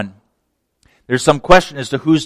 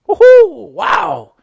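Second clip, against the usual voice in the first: crowd cheer; 5 dB louder, much slower than usual. Retold or imitated.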